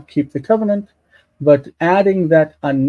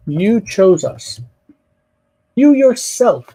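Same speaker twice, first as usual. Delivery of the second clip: YOU YOURSELF leaned on, higher and drawn out; stress on YOU; 4 semitones higher, slower than usual. Shown as a demonstration. Teacher explaining the Hebrew pronoun, stress on YOU. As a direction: make YOU the emphatic word. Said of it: "This is emphatic".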